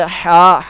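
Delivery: ہا pushed from the middle of the throat, drawn out; throat haa. Shown as a demonstration. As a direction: squeeze ہا out of the throat, not the belly. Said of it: "حلق سے نکلے گی یہ ہا".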